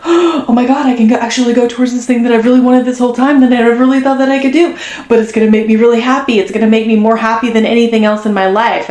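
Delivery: rushed, thrilled rush of words; blurting out a sudden realization in delight; excited gasp of relief. Retold or imitated. Reader voices the client's thrilled realization, fast and excited.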